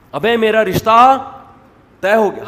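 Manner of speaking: loud, high, drawn-out good news; happy announcement. Acted. Newly engaged person announcing the match, overjoyed. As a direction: proclaim it joyfully to everyone. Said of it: "کہہ رہے ہوتے ہیں خوشی سے".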